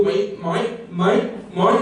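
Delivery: lightly put-on Australian vowels; mock Australian accent. Speaker mocking contestants who go Australian, mock Australian accent. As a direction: try out an Australian accent on each word. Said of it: "we start going Australian".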